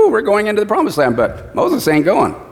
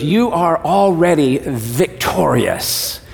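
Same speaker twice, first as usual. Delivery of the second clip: God's reassurance; much slower than usual. Retold or imitated. God reassures the discouraged church, slow and gentle. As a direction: lay each word down slowly and gently. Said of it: "He goes".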